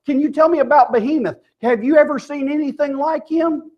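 insistent divine interrogation; God pelting questions. Retold or imitated. God questions Job out of the whirlwind, pelting him. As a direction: press each question on the listener. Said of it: "God pelted him with question after question".

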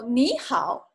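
slow, careful 你好, two third tones with the first rising; tone demonstration. Shown as a demonstration. Teacher showing learners how two third tones combine, careful tone demonstration. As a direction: model 你好 slowly, 你 rising into a dipping 好. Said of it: "they're both third tone".

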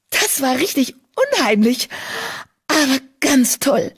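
put-on eager young apprentice exclaiming. A narrator's reading. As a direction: burst out with awe and delight. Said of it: "rief sie aus".

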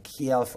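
"Kialif-" with a y-glide after the K; "Kialif-" as in a Californian sketch accent. Shown as a demonstration. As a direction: stretch the first vowel of "Kialif-" into kee-al. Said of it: "I talk like that sometimes".

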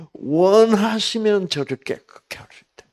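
high, loud plea of a desperate sick man; earnest pleading. Acted. Sick man begging Jesus to heal him, earnest pleading. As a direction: beg urgently, pitched well up. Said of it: "간절히 구하여 이르되".

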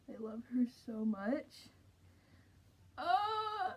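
muffled through thick mask; speaking behind mascot face; talking inside costume head. Real, not acted. Seen 4: Full costume head worn over speaker's face throughout; mask mouth covers theirs.

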